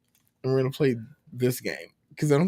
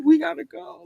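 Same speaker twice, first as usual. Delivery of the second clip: high, louder hurry-up call; imitated impatient parent; 4 dB louder than usual. Parent rushes a gaming child, mock impatient call. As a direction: mimic a parent calling time on the game.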